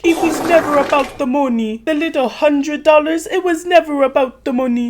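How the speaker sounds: high-pitched indignant mock yell; shrill-pitched imitation of an argument; retold screaming. Woman turning on Tim in the argument, mock screaming. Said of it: "Jen is just screaming over him".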